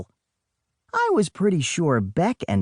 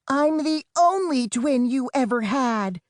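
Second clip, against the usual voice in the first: put-on high, raised, different girl's voice; shouted back; 10 semitones higher than usual. Sister shouts a correction back to her twin, raised voice. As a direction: correct him at a yell. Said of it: "she shouted back".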